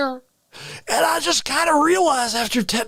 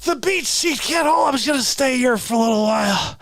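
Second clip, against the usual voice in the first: mock drunk falling.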